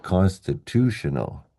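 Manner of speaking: "constitutional" stressed on "tu"; third-last syllable stress. Shown as a demonstration. Teacher recaps Y endings, "constitutional" stressed third last. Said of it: "stress the third last syllable".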